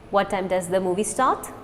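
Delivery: quick, run-together question; fast. Shown as a demonstration. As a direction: fire it off fast. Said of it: "Now fast".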